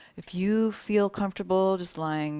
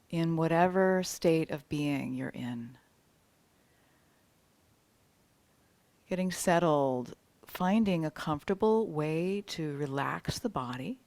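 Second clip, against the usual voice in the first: measured, welcoming meditation guide; unhurried yoga nidra welcome; guided meditation. Real, not acted. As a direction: ease them into relaxation with spaced-out phrases. Opens a guided relaxation.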